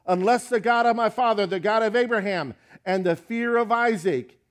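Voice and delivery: "the God of Abraham" proclaimed loud and fervent; fervent rebuke. Acted. Jacob invoking his father's God against Laban, loud and fervent. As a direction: build it like a solemn oath. Notice he says.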